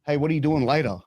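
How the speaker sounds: lightly voiced smooth flirt; a hint of a sleazy come-on; cheesy pickup line. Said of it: "I did this completely off the cuff".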